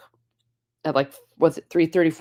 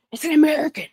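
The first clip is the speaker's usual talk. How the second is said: high-pitched, thrilled relay of news; excited announcement; 11 semitones higher, faster than usual. Retold or imitated. Passenger telling the others the news, excited.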